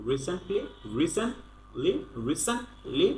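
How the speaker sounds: "recently" said as "ree-sen-lee", no T; teacher splits "recently" into syllables, dropping the T; silent T. Shown as a demonstration. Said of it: "টিটা কিন্তু উচ্চারণ হচ্ছে না".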